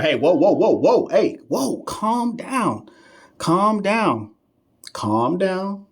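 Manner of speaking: hammed-up soothing; mock calming. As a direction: pretend to calm a panicking student. Mock calming a chat viewer.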